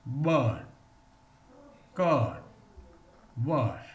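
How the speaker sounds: "bird, curd, washed" said slowly, one at a time; long er drill. Shown as a demonstration. Teacher modelling the long vowel for students, careful drill.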